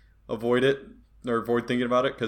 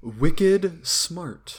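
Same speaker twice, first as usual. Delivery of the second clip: high Boston "Wicked smart"; playful Boston accent; 5 semitones higher than usual. Retold or imitated. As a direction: drop the R like a Bostonian. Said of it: "Boston accent".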